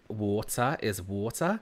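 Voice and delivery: "water" said slowly with a clear T; mum's accent. Shown as a demonstration. Streamer showing mum's accent, careful T in "water". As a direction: pronounce the T in "water". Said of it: "in my mum's accent".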